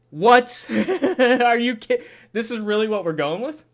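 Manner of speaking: incredulous laughing. Real, not acted. Reviewer reacts to Jesus coming to life, incredulous laughing. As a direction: laugh out the question in disbelief.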